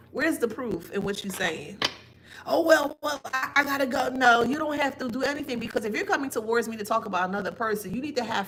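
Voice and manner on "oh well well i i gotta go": high, flustered brush-off of a gossiper caught out; mock flustered excuse. Imitating a gossiper who has no proof and scrambles to leave, flustered.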